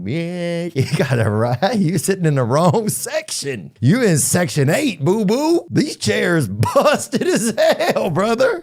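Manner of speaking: high, drawn-out mock confrontation; mocking seat squabbler. Telling a fan they're in the wrong seats, high mock confrontation. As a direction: stretch it out high and cocky, laughing through it.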